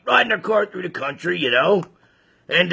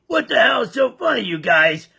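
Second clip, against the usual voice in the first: mock shout; 4 semitones higher than usual. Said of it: "So he asked him".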